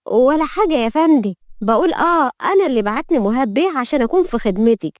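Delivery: high, placating servant's voice; meek young maid. Acted. Maid covering up her grumbling to the mistress, meek. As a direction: cover up with high-pitched politeness.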